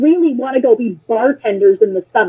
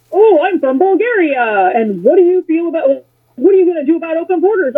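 higher-pitched mock questioner; 4 semitones higher than usual. Candidate imitating people who ask about open borders, mocking.

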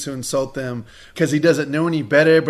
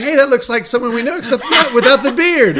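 laughing while quoting; 9 semitones higher, 7 dB louder than usual. Retold or imitated. Mocking quote from movie scene.

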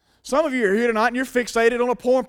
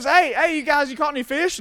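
raised, lightly acted hail to the guys; higher-pitched friendly shout-out, lightly voiced; Jesus hailing fishermen; 4 semitones higher than usual. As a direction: call out casually, pitched up. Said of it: "He says".

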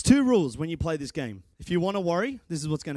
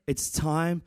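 slow; much slower than usual. Real, not acted. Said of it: "and it's time to stop".

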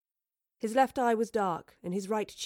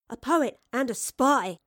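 higher, louder, drawn-out teasing delight; grinning; 5 semitones higher, 7 dB louder than usual. A narrator's reading. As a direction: say it slowly through a grin. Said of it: "grinned Astrid".

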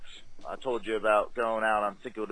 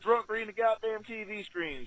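indignant; 11 semitones higher, 3 dB louder than usual. Retold or imitated. Acted bar argument retold.

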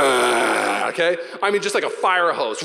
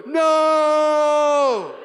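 high, loud shouted no; mentor shouting no; 10 semitones higher, 5 dB louder than usual. Retold or imitated. Mentor warning him off the clip, loud shout. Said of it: "they would've gone".

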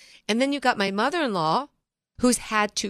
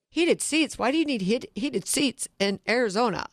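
mock incredulous salesman; 4 semitones higher than usual. Salesman scoffs at her request.

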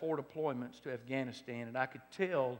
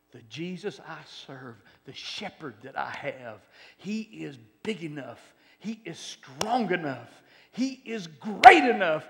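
building to a shout; 3 semitones higher, 13 dB louder, slower than usual. Acted. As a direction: start calm and slow, build each line until you shout. Preacher builds to a climax.

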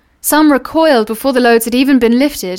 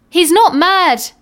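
calm defence; 7 semitones higher, slower than usual. Acted. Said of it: "said the carrier behind him".

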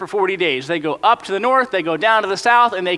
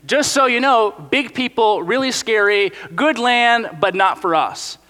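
higher, brisk gossiping report; spies warning nation; 5 semitones higher than usual. Pretend. Spies telling the nation about the big scary people, higher and eager. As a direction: rattle off the bad news like a warning. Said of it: "they go tell the rest of the nation".

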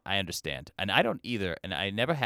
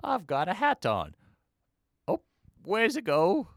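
high, silly British comedy voice; dotty British humor, pitched way up and drawn out; hammed-up British accent; mock British accent; 9 semitones higher, slower than usual. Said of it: "here's some British humor for you".

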